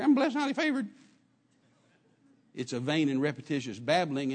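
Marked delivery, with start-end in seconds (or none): 0.0-0.9 higher, glib and hollow; empty rote saying. Shown as a demonstration. A churchgoer repeating the phrase from the head, hollow. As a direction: rattle it off without meaning. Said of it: "But when it comes out of here".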